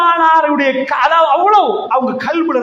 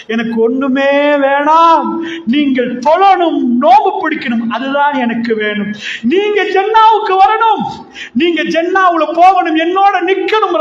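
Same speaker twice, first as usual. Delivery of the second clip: raised preaching voice, stretched emphatic words; impassioned retold plea; 3 semitones higher than usual. Preacher voices the Prophet wanting paradise for his people, impassioned plea. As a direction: plead fervently, phrase by phrase, rising in force.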